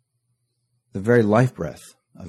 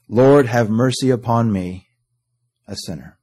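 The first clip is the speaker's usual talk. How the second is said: heart cry. Acted. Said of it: "that heart cry sounds like this".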